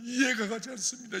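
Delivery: loud, high 이해가 가지 않습니다; anguished cry. Real, not acted. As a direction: cry it out to heaven. Preacher cries out to God. (하나님께 울부짖듯)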